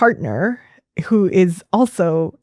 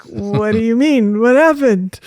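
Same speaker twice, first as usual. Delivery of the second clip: mildly alarmed question, rising higher at the end; scared; 4 semitones higher than usual. Retold or imitated. Therapist to client's husband phoning after session, mildly scared. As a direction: retell a worried question with a touch of alarm. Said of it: "And I was scared".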